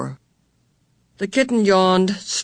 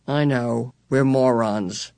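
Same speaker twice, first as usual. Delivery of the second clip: slow, lower, sourly self-mocking; bitter; 5 semitones lower, slower than usual. A narrator's reading. Meg answering her twin brothers' teasing, bitter. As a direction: let the bitterness sink into it. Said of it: "Meg was bitter".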